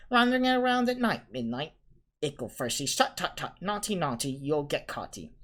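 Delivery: high singsong teasing voice; teasing poltergeist. A narrator's reading. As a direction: taunt like a cheeky poltergeist. Peeves teasing voice.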